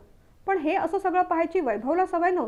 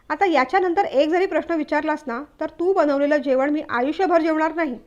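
irritated threat, a bit louder; fed up; 4 dB louder than usual. Acted. Husband losing patience with endless meal questions, mildly angry. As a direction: warn her he's had enough of questions. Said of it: "तो वैतागून म्हणाला".

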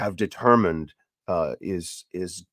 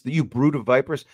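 rebuke in their face; 6 semitones higher than usual. Retold or imitated. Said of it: "He's in their face".

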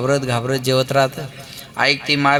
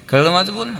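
ordinary talk

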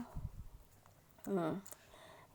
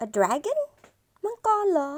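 louder, rising mock shout; acted shouted question; 11 semitones higher, 5 dB louder, much slower than usual. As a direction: call it out in disbelief as the shepherd. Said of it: "ตะโกน พูดไปว่า".

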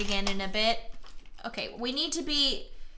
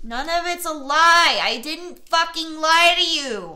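higher, louder desperate insistence; emphatic denial; 5 semitones higher, 7 dB louder than usual. Acted. Player insisting to the girlfriend he never lied. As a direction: plead your innocence hard. Pleading with game character.

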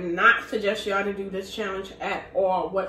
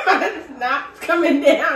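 laughing; 2 semitones higher, 4 dB louder than usual. Real, not acted. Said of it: "my nose started running, my eyes just watering".

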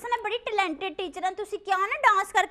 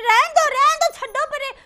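high, loud bashful brush-off; hammed-up flattered shooing; coy protest; 7 semitones higher, 8 dB louder than usual. Flattered teacher protests coyly. (ਸ਼ਰਮਾ ਕੇ ਉੱਚੀ ਆਵਾਜ਼ 'ਚ ਨਾਂਹ)

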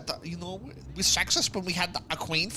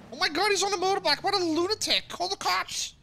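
high, fast excited shouting; 9 semitones higher than usual. Real, not acted. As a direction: yell it out in disbelief, quickly. Sees a lunatic on motorbike.

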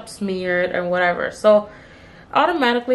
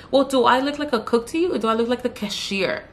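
smart-ass retort; 3 semitones higher than usual. Retold or imitated. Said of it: "like a total smart ass".

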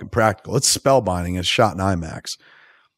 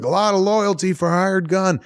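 put-on higher, fussy old English gent voice; posh old British man; 12 semitones higher than usual. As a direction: play Bane like a fuddy-duddy British toff. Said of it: "an old, posh, fuddy-duddy British man".

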